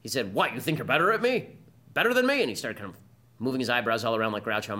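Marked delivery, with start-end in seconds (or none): 0.3-2.4 retold angry retort. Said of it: "he got very angry at me".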